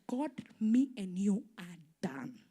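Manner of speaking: hushed, cold whisper to God; bitter whisper. Retold or imitated. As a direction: hiss it under your breath.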